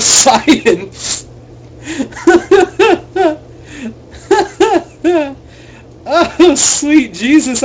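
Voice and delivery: cracking up mid-sentence; laughing. Real, not acted. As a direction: breaks into laughter. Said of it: "I couldn't keep a straight face anymore".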